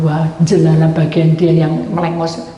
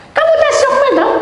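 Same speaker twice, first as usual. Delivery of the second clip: much higher and louder, laughing through it; high mocking woman, laughing; 6 dB louder than usual. Woman presses the speaker, high and laughing.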